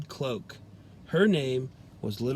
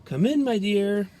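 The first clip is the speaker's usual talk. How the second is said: deep scratchy voice; 6 semitones higher, 5 dB louder than usual. A narrator's reading. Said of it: "deep, scratchy voice that answered".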